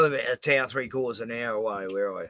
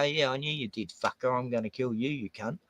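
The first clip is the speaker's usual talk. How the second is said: a low, softer menacing threat, fading down; quiet threat; 3 semitones lower, 8 dB quieter than usual. Retold or imitated. Narrator threatening the dog killer among the drunks, quiet and menacing. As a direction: menace him under your breath. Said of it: "And I go".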